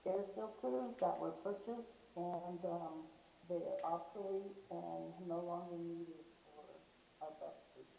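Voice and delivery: muffled voice, like a rag over the mic; speaking too far from the mic, muffled. Real, not acted. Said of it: "you sound muffled".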